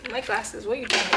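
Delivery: normal talking voice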